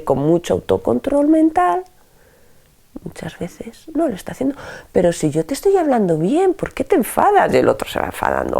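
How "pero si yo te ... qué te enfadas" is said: insisting they are calm, pitch jumping up; mock self-controlled, getting testy; supposedly serene protest. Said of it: "se cree que está hablando muy serenamente". (protesta que se cree serena)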